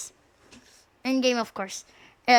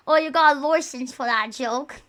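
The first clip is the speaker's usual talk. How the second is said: mock British. Mock British licence joke.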